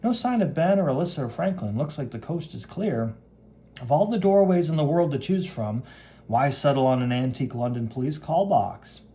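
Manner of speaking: lightly acted, animated and musing; breezy comic-book hero. Hero checks the coast is clear, breezy and animated. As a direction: play a hero thinking aloud, lightly.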